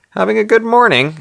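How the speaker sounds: high, sing-out camp greeting. Acted. Sandra greets hungover Hugh at the door, camping it up. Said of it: "camping it up".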